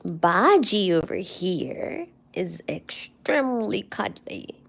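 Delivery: hushed whisper beside the sleeping cat. Real, not acted. Owner whispering to viewers about her cat, hushed. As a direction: whisper so as not to wake him.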